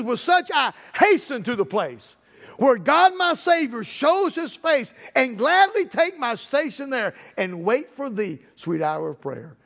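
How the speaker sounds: slow, drawn-out verse with pauses; hymn recitation. Acted. Repeats hymn lines in sermon.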